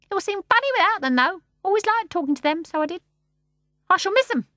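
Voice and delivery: high bird voice, wistful; starling missing the babies. A narrator's reading. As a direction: say it a little sadly.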